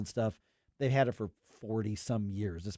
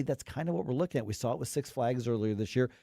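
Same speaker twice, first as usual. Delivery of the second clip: ordinary talk, nothing marked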